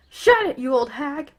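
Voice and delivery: high, loud snarling yell. Acted. Bakugo yelling at his mother, loud and angry. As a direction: bark it at her at full volume. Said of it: "Bakugo started yelling at her".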